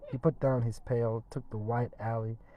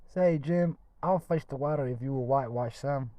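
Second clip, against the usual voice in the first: Tom's voice; 3 semitones higher, 5 dB louder than usual. A narrator's reading. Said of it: "Tom said".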